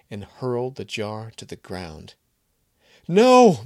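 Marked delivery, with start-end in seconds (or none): 3.1-3.6 piercing high, very loud scream. Acted. Maria screaming as Kevin hurls the jar. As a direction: shriek it in horror. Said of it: "Maria screamed".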